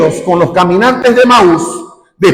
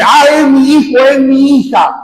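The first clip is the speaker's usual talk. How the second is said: fooled parent exclaiming; 4 semitones higher than usual. Retold or imitated. Parent on the phone fooled by the extortionist, exclaiming. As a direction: blurt it out like a parent who thinks it's their child. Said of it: "Y así dice".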